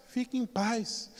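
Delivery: soft, slow and soothing; calm reassurance. Retold or imitated. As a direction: gently settle her down.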